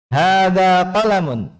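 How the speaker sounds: "Hadza qalamun" high and slow, "Hadza" held long, falling at the end; model statement intonation. Shown as a demonstration. Teacher reads for the class to follow, drawn-out statement intonation. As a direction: draw out "Hadza qalamun" high, ending in a fall. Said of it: "Perhatikan panjang pendeknya dan intonasinya".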